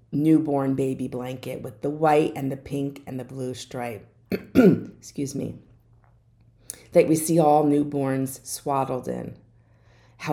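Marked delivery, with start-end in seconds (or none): 4.2-5.6 throat clear, then a slow "excuse me". Real, not acted. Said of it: "I have a cough".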